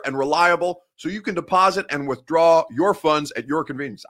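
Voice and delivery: measured, punched-up radio ad read; sponsor ad read. Acted. Sports host pitching a betting app to viewers, ad read. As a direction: sell it, leaning on the key phrases.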